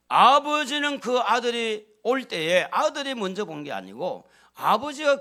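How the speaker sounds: loud, high, fervent sermon delivery; full-force preaching. Acted. Pastor preaching to his flock, loud and fervent. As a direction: preach it out over the congregation.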